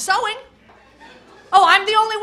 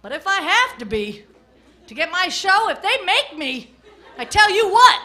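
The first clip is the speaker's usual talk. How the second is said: hammed-up loud bossy rant; mock shouting Asian boss; 2 semitones higher, 5 dB louder than usual. Comic barking orders at her girlfriend. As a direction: yell orders at the nail girl. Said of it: "I said".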